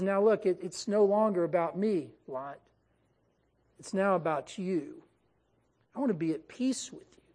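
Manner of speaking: lightly voiced humble uncle; humble pleading. Humbled Abraham pleads with Lot.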